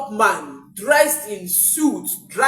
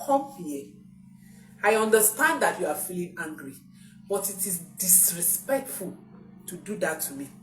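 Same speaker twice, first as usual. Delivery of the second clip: calm correcting parent. Retold or imitated. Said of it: "You call your child back".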